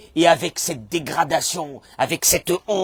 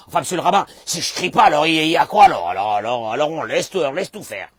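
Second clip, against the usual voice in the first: indignant objection; 9 dB louder, faster than usual. Acted. Listener objecting to rabbi.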